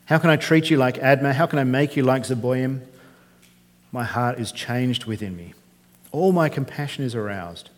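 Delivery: measured, solemn reading of scripture. Acted. Preacher reading Hosea to the congregation, solemn. Reads the Bible passage aloud.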